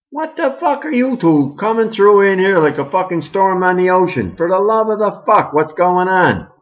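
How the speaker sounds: high startled outburst. Acted. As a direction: react like they burst in. Janet startled by intruders.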